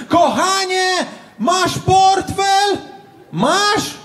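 high, slow shouted call across the flat; panicked yell to his girlfriend about the wallet; shouting to girlfriend. Retold or imitated. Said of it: "ja krzyczę".

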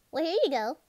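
high, loud and flustered; flustered call. Acted. Flustered handing over of clothes.

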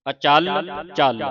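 ਅਚਲ, ਚਲ with firm weight on each chal; tight, doubled sounds. Shown as a demonstration. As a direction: press hard into ਅਚਲ and ਚਲ, separately. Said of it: "ਕੱਸ ਕੇ ਬੋਲਣੇ ਨੇ".

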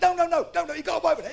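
mock-urgent repeated denial; insistent correction. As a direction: insist on it, cutting off the sympathy. Mate corrects the assumption, escalating.

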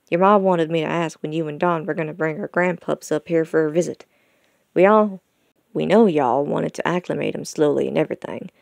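lightly voiced country dad, coaxing his son; a hint of an eager rural pa; folksy father, eager. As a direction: gently press for a family visit.

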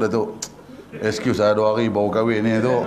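low-voiced newlywed begging off; meek excuse. Preacher acts a newlywed asking Datuk to excuse him, meek and low. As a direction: plead quietly to be let off.

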